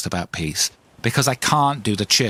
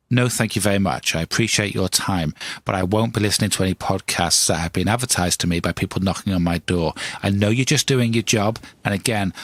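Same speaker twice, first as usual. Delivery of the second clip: polite, calm refusal; 5 semitones lower than usual. Acted. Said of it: "they're gonna quietly, calmly shut the door".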